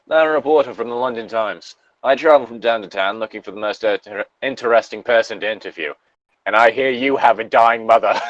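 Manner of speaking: lightly put-on English reporter accent; bad English accent. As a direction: introduce yourself in a fake English accent. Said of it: "he's going to be talking like this".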